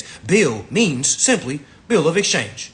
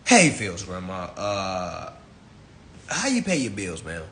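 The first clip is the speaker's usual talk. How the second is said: pretend phone call. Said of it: "I'll call your grandma".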